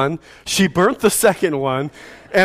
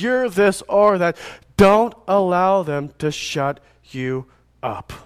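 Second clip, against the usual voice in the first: preaching; 3 semitones higher than usual. Acted. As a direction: drive the charge home to the congregation. Preaching the application.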